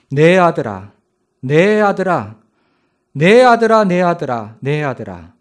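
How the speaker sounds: a grieving father calling his son, rising to a loud cry then fading; father wailing for his dead son. Acted. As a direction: wail the name, peak in the middle, then let it sink. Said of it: "목 놓아 불렀습니다".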